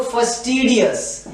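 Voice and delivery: फस्टिडियस said slowly and clearly; careful pronunciation. Shown as a demonstration. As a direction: model फस्टिडियस carefully for students. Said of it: "अच्छे से pronounce करें इस word को". (फस्टिडियस का साफ़, धीमा उच्चारण)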